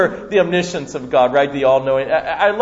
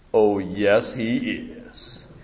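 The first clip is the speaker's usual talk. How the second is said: deep, grand, regal voice, very slow and drawn out; 7 semitones lower, 6 dB quieter than usual. Answering a four-year-old who said Daddy's not here, deepest, most majestic voice. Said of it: "I said in the deepest, most majestic voice I could muster".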